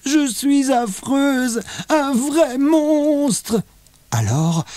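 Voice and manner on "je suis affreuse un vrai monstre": high, very slow tearful wail; wailing sob. A narrator's reading. Léa crying at the mirror, slow wail. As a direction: wail it through tears. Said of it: "elle se met à pleurer".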